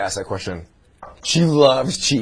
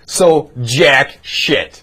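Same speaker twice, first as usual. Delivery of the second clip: slow deadpan; 4 dB louder, much slower than usual. Shown as a demonstration. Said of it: "Wasn't as funny the second time".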